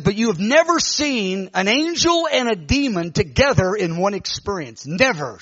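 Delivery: lightly imitated prophetess laying down a word; prophesying woman. Woman prophesying to Augustine, emphatic declaration. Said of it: "started prophesying".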